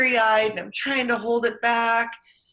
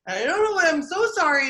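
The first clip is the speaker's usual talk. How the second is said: remorseful apology; 5 semitones higher than usual. Retold or imitated. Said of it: "oh, so remorseful".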